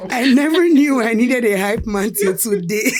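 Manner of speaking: laughing through the words. Real, not acted. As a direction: laugh while you say it. Laughing at hype.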